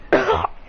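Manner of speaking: short hacking coughs; pained hacks between blows; acted choking. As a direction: cough as if beaten badly. Wrecked fighter chokes from blows.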